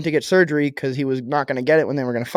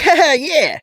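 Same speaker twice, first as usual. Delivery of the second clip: awkward fake laugh; 11 semitones higher, 3 dB louder, slower than usual. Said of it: "they're just like".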